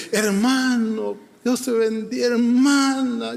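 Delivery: imitating gushing affection for church members; overflowing love. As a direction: greet them slowly, acting out newfound love. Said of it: "un amor por esa gente".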